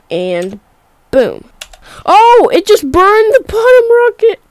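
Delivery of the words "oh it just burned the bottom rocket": surprised. Real, not acted. Rocket part burns.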